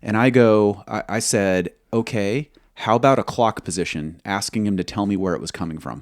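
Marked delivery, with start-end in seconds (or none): 1.9-4.2 almost sarcastic. Retold or imitated. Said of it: "I was almost sarcastic".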